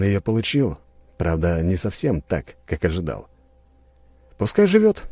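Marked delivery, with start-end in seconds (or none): 4.4-5.0 hero's verdict. A narrator's reading. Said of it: "произнёс я вслух".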